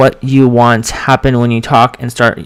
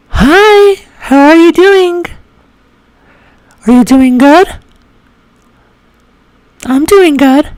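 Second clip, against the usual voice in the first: very high feminine practice voice. Shown as a demonstration. Practising some words and greetings, high feminine voice. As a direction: say each short phrase way up high. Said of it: "we're gonna practice some words".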